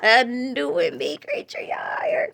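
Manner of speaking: loud, excited declaration. Real, not acted. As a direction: burst out with joy. Excited testimony.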